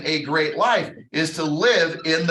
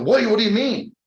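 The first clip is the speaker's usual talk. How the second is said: incredulous objection; 6 semitones higher, 3 dB louder than usual. Retold or imitated. Acting somebody's startled objection.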